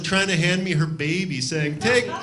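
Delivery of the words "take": high, slow, hammed-up mock accent; mock Cleveland accent. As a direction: squeal it like a frantic mother handing off her baby. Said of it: "That was a Cleveland accent".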